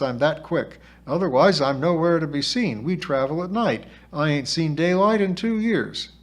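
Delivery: lightly voiced cocky girl; a hint of a brash young spirit girl; feisty spirit girl, boasting. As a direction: explain it proudly, a little cheeky. Voices Sybil explaining herself.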